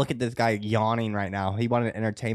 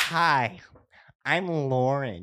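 mocking impression of Lauren. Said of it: "you wanna hear my Lauren?".

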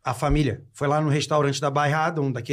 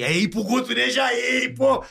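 high, stretched-out cheer; mock excited outburst; 6 semitones higher, slower than usual. Guest adds himself among famous diners, high mock-excited shout. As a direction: call it out high and drawn out.

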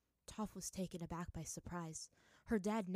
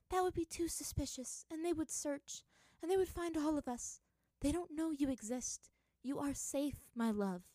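high, soothing mother voice; mother calmly gathering her daughter; gentle mother; 9 semitones higher, 4 dB louder than usual. A narrator's reading.

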